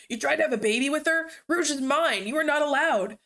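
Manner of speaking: rising jealous yell, fast; angry shout. Acted. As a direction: shout him down, possessive. Jealous Knuckles rages at SPO.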